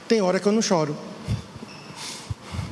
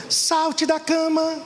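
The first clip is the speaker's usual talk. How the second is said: much higher, slow, sing-song wake-up cry; a gospel singer's meme; 8 semitones higher, much slower than usual. Retold or imitated. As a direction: lightly imitate the famous meme singer. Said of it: "O meme da cantora". (imitação leve do meme, aguda e lenta)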